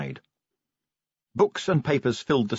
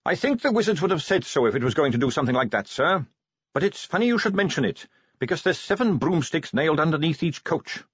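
put-on higher eager young Carrot voice; 5 semitones higher than usual.

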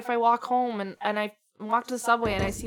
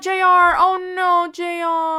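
high, loud anguished "oh no"; 1 distressed cry; 7 semitones higher, 6 dB louder than usual. Real, not acted. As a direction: cry out for the dog in real dismay. Dog in danger on screen.

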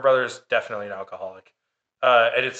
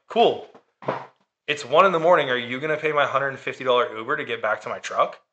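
sarcastic; faster than usual. Retold or imitated. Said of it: "I'm such a sarcastic asshole".

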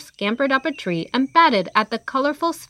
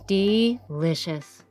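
savoring; much slower than usual. Acted. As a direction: relish the taste. Crocodile savoring icing, eyes closed.

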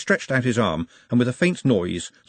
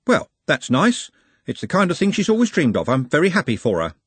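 put-on higher, measured, careful young man's voice; Trev, pleased for her; 7 semitones higher, 4 dB louder than usual. Trev gives Glenda the right answer, carefully pleased. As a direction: choose the words carefully, lifted in pitch.

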